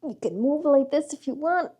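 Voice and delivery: talking on a held breath; holding breath. Real, not acted. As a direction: squeeze words out while holding breath. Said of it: "I'm holding my breath and trying to talk".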